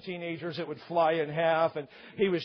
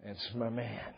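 proud wife; 6 semitones lower, 9 dB quieter, slower than usual. Acted. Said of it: "your wife goes".

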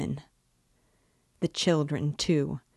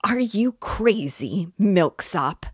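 higher-pitched indignant squeal, lightly done; 5 semitones higher, 4 dB louder, slower than usual. A narrator's reading. Accused man turns on the witness, mild squeal. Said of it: "squealed Luzhin".

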